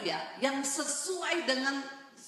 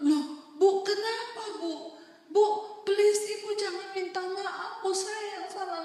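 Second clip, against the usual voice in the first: higher, louder, flustered protest; a hint of a startled pastor protesting; bewildered protest; 9 semitones higher, 4 dB louder than usual. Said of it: "Bapaknya malah bingung".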